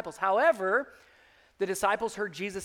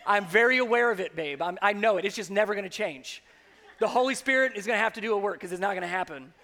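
laughing confession; faster than usual. Retold or imitated. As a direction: own it with a laugh. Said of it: "this is what she tells me daily".

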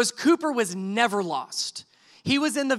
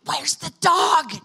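high, slow, drawn-out shout; exasperated holler to the wife; panicked yell; 6 semitones higher, 4 dB louder, slower than usual. Retold or imitated. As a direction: yell it across a parking lot, stretching each word. Yelling at wife across lot.

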